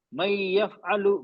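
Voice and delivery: मई यफ़अलु drawn out slowly, nun merged into ya; slow Quran recitation. Shown as a demonstration. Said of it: "ये नाक में आवाज आ रही है?".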